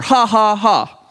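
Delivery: deliberate mock laughter; demonstrated spoken laugh. Shown as a demonstration. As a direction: sound out a laugh as an example. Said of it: "it means is laughter".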